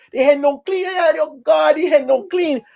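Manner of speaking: outraged old goat reacting to gossip; shocked goat. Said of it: "goat voice resumes".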